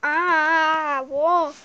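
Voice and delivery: startled cry. Acted. Surprise in game.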